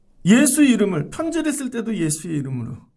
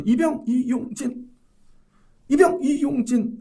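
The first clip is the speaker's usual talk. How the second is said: slow, clipped soldier's name-rank call; barked-out private reporting in; korean military style; 5 semitones higher, slower than usual. Retold or imitated. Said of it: "관등성명 가리키더라고요".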